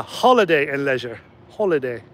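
imitated Australian with dropped r in "leisure"; Australian accent. Driver repeating his passenger's words, imitated Australian accent. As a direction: echo the Australian tourist's wording and vowels. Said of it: "as he put it".

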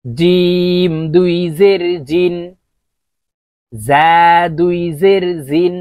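জিম as j, জা as z, লাল lisped, র heavy and rounded; four distinct j-z sounds. Shown as a demonstration. Teacher showing four letters, slow distinct জিম, জা, লাল, র. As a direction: draw out জিম, জা, লাল, র, each sound kept apart. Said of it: "চারটি হরফের উচ্চারণ চারভাবে হবে".

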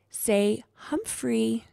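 slow, careful prompting; patient, drawn-out teaching tone; gentle correction. A narrator's reading. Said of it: "Saya gently corrected him".

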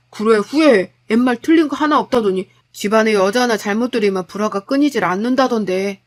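lightly voiced, accusing husband; fed-up husband. Husband regretting marriage to his wife, fed up. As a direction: criticise her with mounting irritation.

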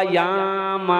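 very slow, stretched yaama; groom's slow sly reply; drawn-out answer. Acted. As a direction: drag the word out slowly.

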